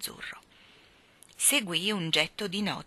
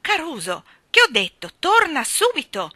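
loud, high sharp order; imperious shouted command; 9 semitones higher, 9 dB louder than usual. Acted. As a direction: order the bird back at once. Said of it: "ordinò".

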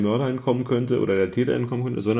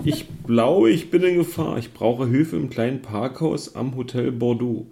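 panicked emergency call; slower than usual. Acted. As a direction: sound like you're in danger on the radio. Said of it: "Der panische Anruf deiner Kollegin". (panischer Notruf über Funk)

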